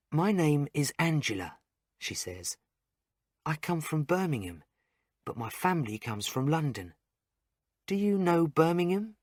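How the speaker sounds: bright friendly nurse chatting to a patient. A narrator's reading. Narrator voicing Nurse Angela.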